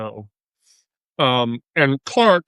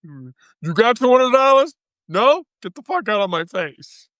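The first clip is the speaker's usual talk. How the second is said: mock hoe yelling; 6 semitones higher than usual. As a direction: shove the broke guy away with a sneer. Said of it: "Two hundred fucking dollars an hour".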